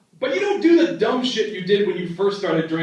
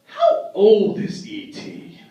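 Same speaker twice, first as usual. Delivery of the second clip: suspicious; 3 semitones higher, slower than usual. Retold or imitated. Suspicious question.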